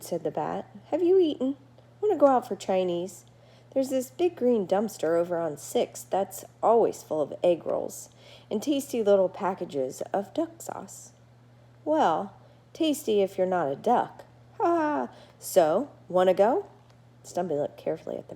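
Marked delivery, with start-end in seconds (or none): 0.9-14.2 a friendly bat gabbing at his new neighbor; chatty bat Murray. Acted. Murray invites Stumpy for Chinese. 14.6-15.1 mock laugh. Bat laughs at own joke. 15.4-16.7 a friendly bat gabbing at his new neighbor; chatty bat Murray. Acted. Murray invites Stumpy for Chinese.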